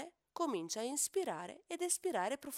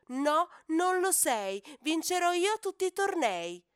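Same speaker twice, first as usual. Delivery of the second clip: angry retort; 8 semitones higher, 9 dB louder than usual. Acted. Hippo calf hotly contradicting the cheetah. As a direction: snap back at the rival.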